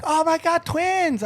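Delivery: high-pitched mock Asian accent; thick Asian accent. Shop lady noticing the twins, high mock Asian accent. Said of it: "Thick Asian accent".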